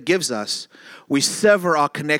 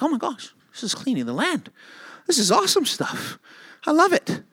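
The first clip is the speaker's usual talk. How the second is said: excited; 11 semitones higher than usual. Pretend.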